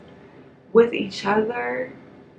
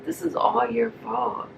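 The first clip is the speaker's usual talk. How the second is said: Nikki blaming; 3 semitones higher than usual. Retold or imitated. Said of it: "She's like".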